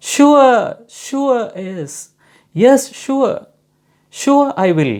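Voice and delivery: high, loud, eager reply; high cheerful yes; bright eager reply. Shown as a demonstration. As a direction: answer high and keen, like a helpful friend. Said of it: "എന്തായിരിക്കും സ്വാഭാവികമായും അതിൻ്റെ answer?".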